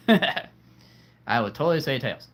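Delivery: laughing. Real, not acted. Laughing at own choice.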